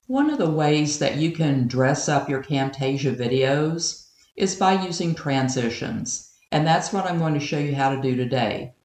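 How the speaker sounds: hollow, underwater-sounding mic audio; like recording inside a tunnel. Shown as a demonstration. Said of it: "Do your Camtasia videos sound like this?".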